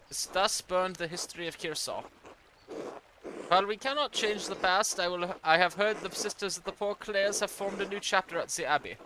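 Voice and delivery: put-on light German accent for an old churchman's letter; a hint of a German accent, formal and measured. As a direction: read it as a German-accented archdeacon. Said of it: "I accidentally gave him a German accent".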